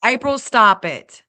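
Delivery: playful scolding. Real, not acted. Viewer teasing via super chat.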